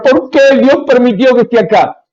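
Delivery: mock whining. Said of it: "Pablo no se puso a llorar".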